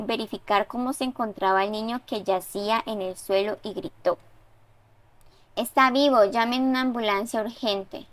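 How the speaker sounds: steady, even read-aloud of a story; story narration. A narrator's reading. Teacher reading a student's story aloud, even narration. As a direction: read the student's text out to the class.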